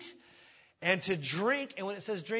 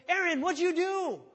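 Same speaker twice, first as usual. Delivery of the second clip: higher, louder demanding voice; mock confrontation; 10 semitones higher, 6 dB louder than usual. Moses demands answers from Aaron, higher and louder. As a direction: call him out with disbelief.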